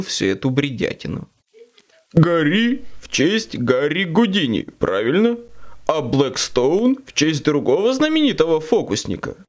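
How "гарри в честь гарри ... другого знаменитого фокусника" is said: devil. Acted. Demon asks about the names.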